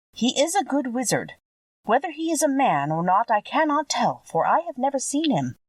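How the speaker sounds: a hint of a motherly witch breaking sad news; kindly old witch, gently regretful. A narrator's reading. Witch of the North telling Dorothy she must stay, lightly voiced kind old woman.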